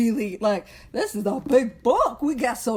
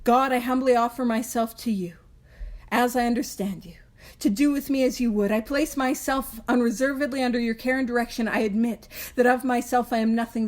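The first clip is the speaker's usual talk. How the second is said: prayer reading. Shown as a demonstration. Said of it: "we can use this one".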